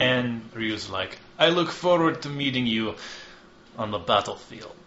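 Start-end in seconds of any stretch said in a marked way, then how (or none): 1.4-4.8 high, cool defiance; defiant retort. Acted. Ryu answering the envoy, coolly defiant. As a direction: answer the threat calmly, daring him.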